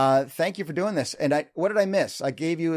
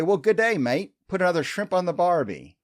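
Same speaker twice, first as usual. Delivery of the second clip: mock Australian accent; 4 semitones higher than usual. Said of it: "quote my favorite movie ... Dumb and Dumber".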